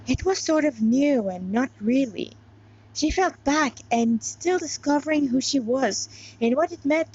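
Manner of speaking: lightly voiced reading of her fanfic; understated story reading; story narration. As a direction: read the chapter aloud like a storyteller. Reads her fanfiction aloud.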